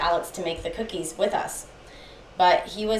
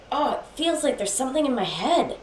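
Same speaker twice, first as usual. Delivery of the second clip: higher-pitched, distressed quote; retold freak-out; 6 semitones higher than usual. Boyfriend feeling something in his head, distressed. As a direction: imitate his rising unease. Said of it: "after that little freak out".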